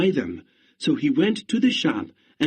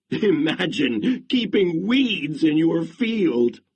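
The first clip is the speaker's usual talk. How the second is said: mocking laugh; 4 semitones higher than usual. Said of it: "they laughed at him".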